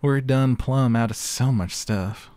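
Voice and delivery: put-on Southern belle accent; hammy Southern chef, slowing at the end. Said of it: "the local chef in Southern Belle".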